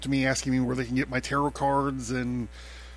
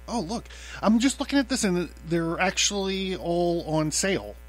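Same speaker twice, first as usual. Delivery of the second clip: oh look, caught off guard by the sale; bright, high surprise; pleased surprise; 4 semitones higher than usual. Real, not acted. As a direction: pitch jumps high on a sudden discovery. Discovers shirts are on sale.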